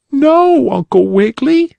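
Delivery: put-on little girl voice. A narrator's reading. Polly Flinders answers the bunny uncle, high and childlike. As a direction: pipe up like a small girl.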